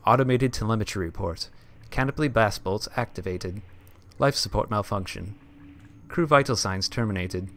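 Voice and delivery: flat automated ship computer voice. Shown as a demonstration. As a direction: read it like a ship's computer. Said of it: "It's my best computer voice".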